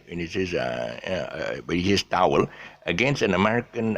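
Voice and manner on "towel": put-on TOWEL in a Malaysian accent, tow-wel. Teacher contrasting Malaysian and British speech, Malaysian accent. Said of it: "a Malaysian".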